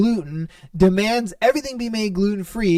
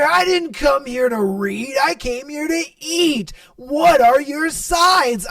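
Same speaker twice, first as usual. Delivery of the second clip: mock angry yell; 6 semitones higher than usual. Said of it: "dude is yelling over some dumb shit".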